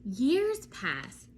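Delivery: lively storybook reading with vivid pauses; reading to children. Acted. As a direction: read it to a class of little ones.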